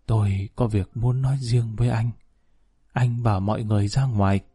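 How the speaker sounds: a touch of halting, breath-broken words; lightly played weak old man, words in fragments; broken halting speech. Bedridden old man asking the general for privacy, halting. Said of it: "Ông Phương nói đứt quãng".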